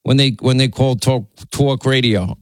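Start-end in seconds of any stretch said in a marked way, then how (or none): 1.5-2.4 exaggerated New York "tawk"; mimicked New York accent. Host teasing colleague about talk radio, mimicked New York accent. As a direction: imitate a New Yorker saying talk. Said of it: "Linda's New York accent".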